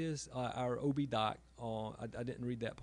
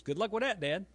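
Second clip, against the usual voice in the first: daughter's retort; 7 semitones higher, 6 dB louder than usual. Retold or imitated. Daughter quoted deadpan.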